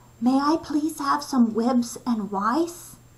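whispering. Narrator reads a boy asking in the cafeteria, whispered. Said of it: "he whispered".

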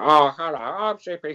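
shrill puppet voice, very high, loud and drawn-out. Recalling voicing a puppet for two series, the speaker demonstrates his Zippy puppet voice. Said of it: "I'd be doing my version of Zippy".

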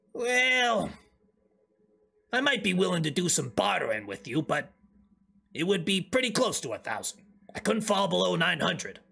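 homespun goblin character voice. A goblin merchant haggles with a buyer over his price, goblin voice. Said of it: "It is a goblin".

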